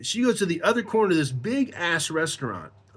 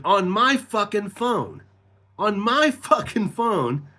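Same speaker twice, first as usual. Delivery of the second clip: slow, higher, indignant stress on "my"; incredulous emphasis; 4 semitones higher, slower than usual. Real, not acted. Telling how she called her husband, "my" stressed indignantly. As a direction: hit "my fucking phone" slowly in outrage.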